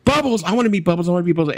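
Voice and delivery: high-pitched eager imitation; mock excited plea. Comic retelling Eddie wanting to meet Bubbles, high mock excitement.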